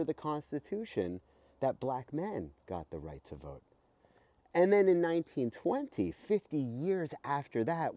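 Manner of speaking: put-on lively, bright read-aloud for kids; reading to children. Host reading a voting book to kids, lively read-aloud. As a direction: read it like a storybook to young listeners.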